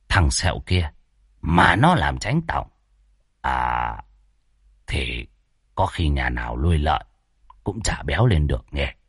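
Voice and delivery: low, sneering aside that drops to a whisper; sly mockery. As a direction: needle him under your breath. Môn Phọt mocks Lâm Sẹo. (giọng thì thầm châm chọc, trầm thấp)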